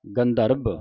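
ਗੰਧਰਬ with a nasal n before the dh; pronunciation demo. Shown as a demonstration. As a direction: say ਗੰਧਰਬ as one joined word. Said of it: "ਗੰਧਰਬ ਉਚਾਰਨ ਕਰਨਾ ਹੈ".

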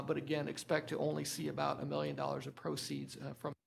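hoarse, fading voice; losing voice. Real, not acted. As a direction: voice giving out. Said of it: "I'm really losing my voice".

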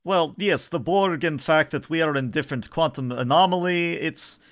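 high-pitched, chatty husband character; husband's double. Acted. Game master plays Tolep's husband.

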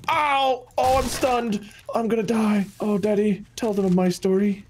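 hammed-up dying words, starting high and sinking; mock dying. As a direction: play a pitiful fake death, fading down. Mock dying scene in game.

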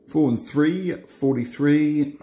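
slow bingo call; bingo caller. Acted. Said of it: "I start doing my bingo calls".

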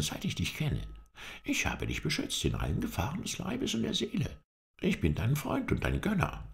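high-pitched, impassioned protest of loyalty; hurt, earnest. A narrator's reading. Halef reproaches his master for insulting him, earnestly hurt. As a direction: plead your devotion earnestly, voice lifted high. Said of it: "Der brave Mensch meinte es ernst".

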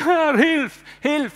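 high, loud plea of "Herr, hilf"; desperate cry. Acted. Moses on the ground crying to the Lord, desperate cry.

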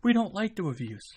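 hammed-up annoyed subscriber; mock complaining viewer. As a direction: play a grumbling fan who's sick of reviews. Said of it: "And you're like".

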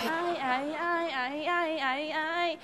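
bingo caller. Acted. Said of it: "em hô sổ số".

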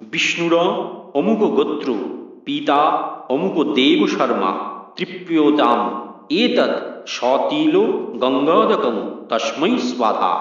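slow intoned ritual formula; mantra recitation. Acted. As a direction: recite it as a priest would. (পুরোহিতের মতো মন্ত্রপাঠ)

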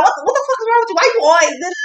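mocking her voice. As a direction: mimic her whining complaint. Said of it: "She's like".

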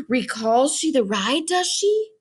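a giant cockroach asking eagerly; eager roach voice. Acted.

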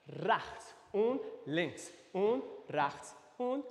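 slow, drawn-out step count. Shown as a demonstration. Dance teacher walking class through steps, slow count. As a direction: stretch each step word out slowly. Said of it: "Ein bisschen schneller".

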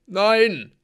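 high, loud, pleading cry; whimpered protest. A narrator's reading. Blitzen begs the axeman, wailing in fear. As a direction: wail the refusal in alarm. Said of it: "wimmerte Blitzen".

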